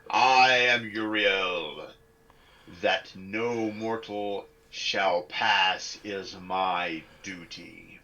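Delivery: slow, booming angelic voice; unearthly voice. Acted. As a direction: intone it like a heavenly being. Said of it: "In an unearthly voice".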